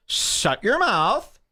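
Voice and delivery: slow, drawn-out mock yell; a hammed-up prissy scold; feminine mock yell. Mocking the comic's heckler comeback again, slow mock yell. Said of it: "very feminine way to yell".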